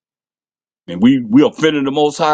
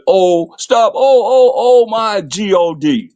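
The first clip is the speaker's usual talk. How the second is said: hammed-up hollering; 9 semitones higher, slower than usual. Preacher mimicking people screaming to God in a disaster, hammed-up wail. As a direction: cry out like someone caught in a hurricane. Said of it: "Everybody be hollering that".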